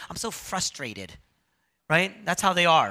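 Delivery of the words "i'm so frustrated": mock-polite, softer and restrained; mild frustration. Imitating churchgoers who soften their anger, said softly. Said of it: "They say".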